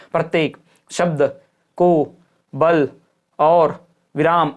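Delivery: a deliberate pause after nearly every word; slow, separated reading of each word; word-by-word halting. Shown as a demonstration. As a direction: read it one word at a time, stopping between. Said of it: "हर शब्द को रुक के कैसे पढ़ेंगे".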